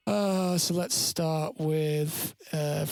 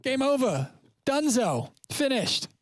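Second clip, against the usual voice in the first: excited; 9 semitones higher than usual. Real, not acted. Finishing the stream, relieved.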